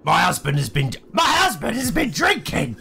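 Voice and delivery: shouting. Acted. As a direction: cry it out over the laughter. Wife shouting excuse for husband.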